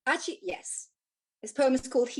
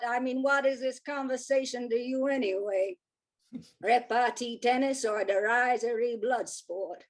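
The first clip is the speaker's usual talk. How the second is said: put-on a light American accent, Dorothy Parker style. Poet reads her Parker-style poem, light American accent. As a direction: read it as a sardonic New Yorker in an American accent. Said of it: "have the audacity to do an American accent".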